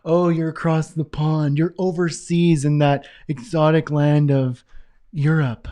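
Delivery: drawn-out teasing awe at the faraway land; slow, grand mock wonder; mock exotic wonder. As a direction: play up overseas like it's a fairy tale. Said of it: "Because we always say, like".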